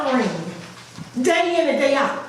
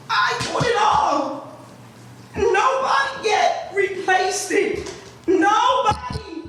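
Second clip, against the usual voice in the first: high, raised voice, near tears; pleading with the council, voice climbing higher; getting emotional; 5 semitones higher than usual. Real, not acted. Resident tells councilwoman her ceiling collapsed, emotional and high. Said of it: "I'm getting emotional".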